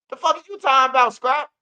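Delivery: high, fast, loud call of alarm; alarmed shout. Retold or imitated. Calling out to Scrap as he walks up, alarmed high yell. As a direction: yell it fast at a man walking up armed.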